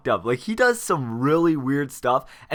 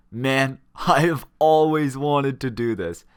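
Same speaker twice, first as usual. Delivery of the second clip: put-on drunk, laughing. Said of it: "stumbling because he's drunk".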